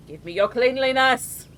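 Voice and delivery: mock greedy plea, pushed out; hammed-up demand.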